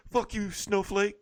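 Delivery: high, slow taunting jab; mock insult. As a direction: sneer the insult at your rival. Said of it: "calling each other".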